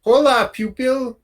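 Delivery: high-pitched half-shouted greeting; sorta shouting. Acted. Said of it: "he sorta shouts".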